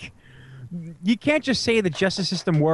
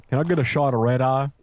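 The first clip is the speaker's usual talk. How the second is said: mock French; 4 semitones lower, faster than usual. Shown as a demonstration. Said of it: "sounds so much better said in French".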